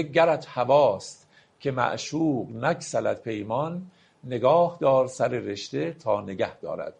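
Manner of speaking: slow, measured reading of a Persian verse; poetry recitation. Acted. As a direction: lay out each word of the couplet slowly. (دکلمهٔ آرام شعر)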